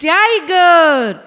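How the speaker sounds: ടൈഗർ stretched very slowly, the ഗർ end dragged like a growl; drawn-out name. Shown as a demonstration. Teacher links the tiger's name to its roar, slow stretched word. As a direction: draw out ടൈഗർ so its ending echoes the growl. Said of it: "അതുപോലെയാണ് അതിൻ്റെ പേരും".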